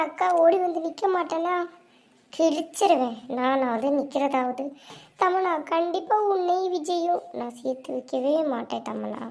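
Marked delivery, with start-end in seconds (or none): 5.2-9.2 a softer muttered-under-the-breath aside; half-hidden scheming, kept down. Acted. Scheming sister to herself, quietly plotting aside.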